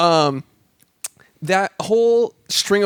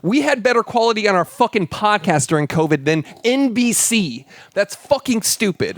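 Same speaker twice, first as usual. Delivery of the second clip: raised-pitch indignation; pissed-off rant; 4 semitones higher than usual. Real, not acted. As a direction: complain in exasperated disbelief. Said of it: "That pissed me off".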